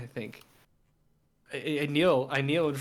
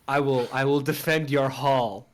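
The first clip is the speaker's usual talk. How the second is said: louder, proud sworn loyalty; loyal knight vow; 3 semitones lower, 5 dB louder than usual. Acted. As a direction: pledge your life boldly. Oath of loyalty.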